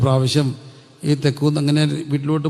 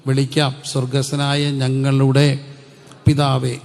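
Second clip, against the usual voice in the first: proclaimed prayer opening; 4 dB louder, slower than usual. Acted. Proclaims prayer words loudly.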